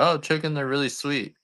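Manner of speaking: high mock-sweet doting voice; mock chicken lover. Mocking viewers who keep pet chickens, high and sugary. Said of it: "and you're like".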